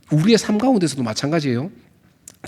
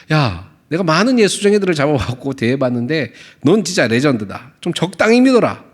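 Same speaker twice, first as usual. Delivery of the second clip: mocking advice. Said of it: "이런 지금 뉘앙스로 얘기를 하고".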